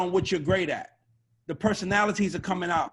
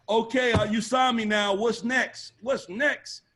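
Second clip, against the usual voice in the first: higher-pitched, pushy mock questioning; mimicking demanding artist; 5 semitones higher, 3 dB louder, slower than usual. Newly signed artist nagging the A&R, mock pushy. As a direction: imitate an artist pestering the label for more.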